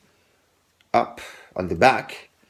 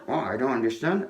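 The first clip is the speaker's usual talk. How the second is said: mock confusion; 7 dB quieter, faster than usual. Shown as a demonstration. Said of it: "as if you're looking for your card".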